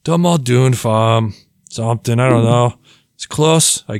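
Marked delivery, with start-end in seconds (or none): 0.0-1.3 mock Irish accent. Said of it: "struggling with that accent".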